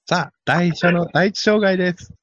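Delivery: a hint of a slow trackside caller; banei race caller impression. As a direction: call the obstacle like a draft-horse race announcer. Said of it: "万栄競馬モノマネ".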